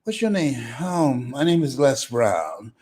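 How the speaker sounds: lightly voiced smooth talker boasting; playful mock pickup line; smooth kid DJ. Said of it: "your platter playing papa".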